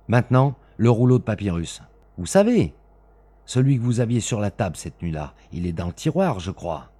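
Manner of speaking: loud, high, stern orders; stern avenger. Acted. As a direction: sweep the papers into the fire. Smith demands the papyrus.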